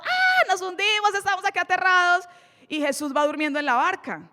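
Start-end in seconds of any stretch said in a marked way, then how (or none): 0.0-2.3 high-pitched mock panic; desperate cry. Disciples crying out as the boat sinks, desperate cry. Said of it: "empiezan a gritar desesperados".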